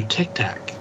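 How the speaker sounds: "tic tac" with a broad Boston vowel, TikTok flattened to "tac"; Boston accent. Real, not acted. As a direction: say "tic tac" in a Boston accent, both syllables open and flat. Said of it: "You meant it as a Boston accent".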